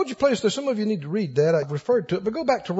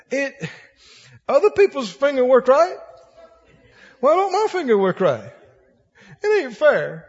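mock self-pity; 4 semitones higher than usual. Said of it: "They'll focus on it and go".

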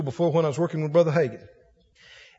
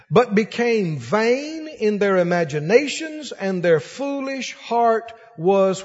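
scripture reading; slower than usual. Acted. Reads scripture aloud slowly.

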